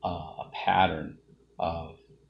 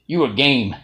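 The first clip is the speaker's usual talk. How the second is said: louder, higher acted compliment; punchy, raised-voice retelling of praise; emphatic quoted praise; 4 semitones higher, 10 dB louder than usual. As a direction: hand out praise with force. Voices Roy Jones Senior's praise.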